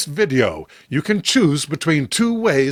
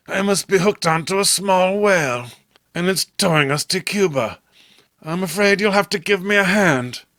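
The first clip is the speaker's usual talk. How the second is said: Robert's voice, lightly raised, calling for help; a touch higher, hauling on the line; Robert straining; 4 semitones higher than usual. Acted. Robert to John while fighting the fish, lightly higher.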